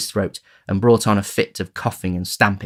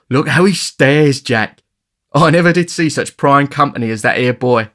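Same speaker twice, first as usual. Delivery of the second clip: hearty laugh; 6 semitones higher, 8 dB louder than usual. A narrator's reading. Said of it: "having laughed heartily again".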